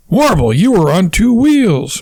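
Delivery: mild high-pitched scolding. Acted. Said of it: "Mary scolds".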